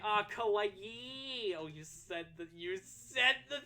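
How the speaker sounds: loud, slow, high gushing squeal; excited squeal. Real, not acted. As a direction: squeal it out like a delighted fan. Squealing over a drawn face.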